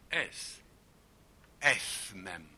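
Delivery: Spanish "es", held in. Shown as a demonstration. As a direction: hold "es" back, tongue at the teeth. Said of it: "la langue entre les dents".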